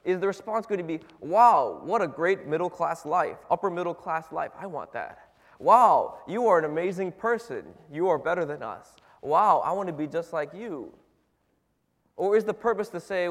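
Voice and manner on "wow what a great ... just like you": loud gushing wow, then fading; mock awe. Imagined converts gushing over the preacher, mock awed. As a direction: gush like a starstruck convert.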